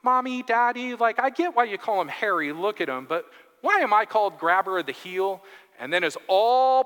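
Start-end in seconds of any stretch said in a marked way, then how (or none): 0.0-5.4 put-on lightly raised little-boy voice, higher; a hint of a whiny child; child's voice. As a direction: play a puzzled little kid asking his parents. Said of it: "little Jacob going".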